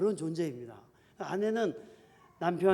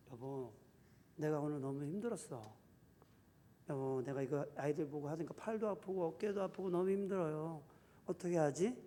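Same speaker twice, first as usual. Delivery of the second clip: much softer, tired-sounding ask for help; soft gentle plea; 3 semitones lower, 10 dB quieter than usual. Shown as a demonstration. Wife softly telling her husband she is exhausted, gentle plea. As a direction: speak gently like a weary wife. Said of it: "이렇게 얘기를 해야 됩니다".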